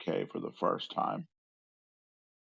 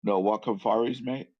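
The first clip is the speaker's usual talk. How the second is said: louder, questioning repeat that climbs at the end; puzzled echo; 4 semitones higher, 5 dB louder than usual. Retold or imitated. Puzzled listener repeating Australian slang back, puzzled echo.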